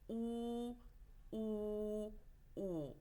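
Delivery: "Oo" held long with rounded lips; long oo sound. Shown as a demonstration. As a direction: round your mouth and stretch each "Oo". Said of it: "Shape your mouth".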